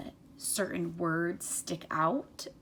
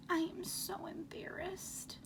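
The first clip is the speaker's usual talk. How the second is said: whispered and softer, said to himself; quiet to himself; 10 semitones higher, 6 dB quieter than usual. Acted. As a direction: murmur it in embarrassment. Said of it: "in a quiet voice".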